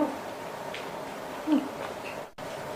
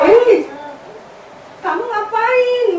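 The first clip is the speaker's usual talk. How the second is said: nervous laughing; 4 semitones higher, 3 dB louder, slower than usual. Real, not acted. Mom laughing nervously at prank.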